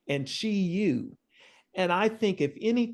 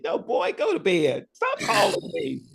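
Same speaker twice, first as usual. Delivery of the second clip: scolding mother; 3 semitones higher than usual. Retold or imitated. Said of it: "she gonna tell you".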